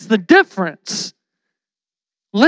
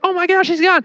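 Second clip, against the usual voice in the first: high-pitched imitation of astonishment; mock shock; 8 semitones higher, faster than usual. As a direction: play shocked, voice lifted high. Disciples react to empty tomb.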